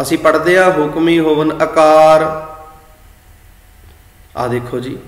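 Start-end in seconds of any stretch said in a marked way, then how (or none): 0.7-2.5 ਆਕਾਰ begun with a short a, akaar; shortened vowel reading. Shown as a demonstration. Teacher shows our careless recitation, ਆਕਾਰ as akaar. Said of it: "ਅਸੀਂ short ਵਿੱਚ ਕਰਤਾ".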